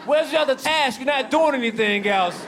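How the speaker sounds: indignant rant. Retold or imitated.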